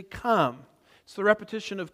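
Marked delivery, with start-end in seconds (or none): 0.0-0.7 "Come" stressed with a firm fall; emphatic come. A narrator's reading. Preacher reading the fourth creature's call, emphatic. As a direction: close the verse on a weighted "Come". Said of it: "put a special emphasis on the word come".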